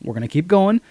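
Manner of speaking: mildly soothing retold voice; calming. Sidney trying to calm agitated Billy, mildly calming. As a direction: lightly imitate someone talking a friend down. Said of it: "tries to calm him".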